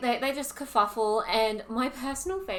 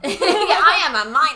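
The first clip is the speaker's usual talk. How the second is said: laughing through the line; 5 semitones higher, 13 dB louder than usual. Retold or imitated. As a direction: giggle the words out, high. Laughing repeat of quote.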